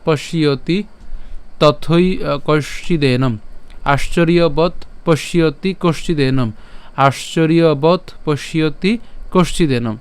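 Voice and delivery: slow recitation. Shown as a demonstration. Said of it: "যদি আমরা এখান থেকে যদি বলি".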